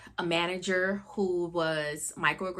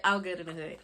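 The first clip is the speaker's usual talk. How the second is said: whisper; 3 semitones lower, 5 dB quieter, faster than usual. Acted. Playful tag after a story.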